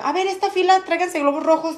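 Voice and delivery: high, lightly acted teacher call; imitated school instructions. Teacher telling each row which balloons to bring, imitated call. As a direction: address the rows like a teacher. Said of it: "Y ya te decían".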